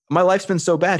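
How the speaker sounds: self-pitying whine. Retold or imitated. Retelling self-pity to cellmate.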